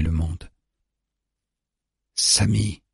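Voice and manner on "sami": higher, drawn-out call with restrained volume; understated call for someone at a distance. A narrator's reading. Captor calls Sami through the rain, restrained calling out. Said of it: "lance D J à travers la pluie".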